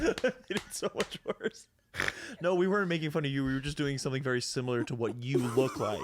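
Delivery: talking through laughter; giggling while speaking; laughing. Real, not acted. Laughing at awkward story.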